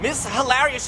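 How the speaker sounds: normal talking voice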